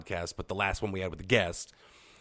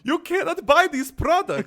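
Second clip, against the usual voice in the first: high, loud announcer disclaimer; hammed-up ad disclaimer; mock disclaimer; 6 dB louder than usual. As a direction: parody an ad's legal line. Fake commercial disclaimer.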